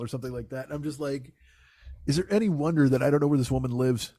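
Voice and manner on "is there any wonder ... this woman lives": amused. Real, not acted. He caps the story of her, breaking into laughter. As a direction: laugh creeping into the words. Cracks up at his own story.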